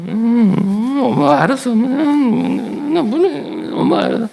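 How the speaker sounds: put-on high, drawn-out child's hemming; whiny child. Boy hemming to his mother over the jacket, high child voice. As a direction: hesitate like a shy boy.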